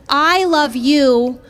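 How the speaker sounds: slow, self-satisfied ex's voice; lightly voiced smug boyfriend, slowed down; narcissist boyfriend. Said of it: "He was like".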